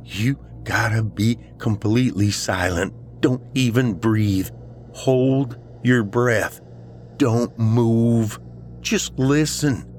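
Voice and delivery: high, urgent, insistent instructions; desperate friend, intense. Acted. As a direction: coach him as if obsessed with a hidden sound. Voices Ryan instructing, intense.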